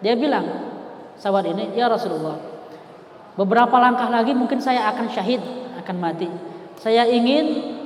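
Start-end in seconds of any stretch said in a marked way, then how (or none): 1.7-7.7 tearful plea. Retold or imitated. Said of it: "sambil nangis gitu kan".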